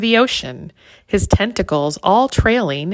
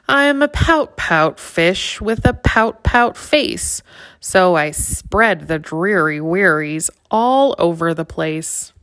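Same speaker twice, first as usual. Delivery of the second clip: a gloomy, sulky fish voice, lightly voiced; glum pout fish. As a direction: sigh it out like a mopey fish. Pout fish speaks first time.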